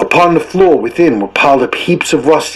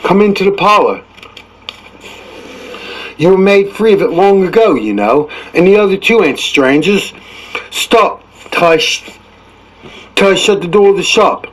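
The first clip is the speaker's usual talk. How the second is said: put-on higher old rascal's voice, sly and easy; old Joe; 5 semitones higher than usual. Old Joe fussing at his squeaky shop door, sly. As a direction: play the old fence at home among thieves.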